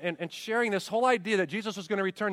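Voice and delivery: ordinary talk, nothing marked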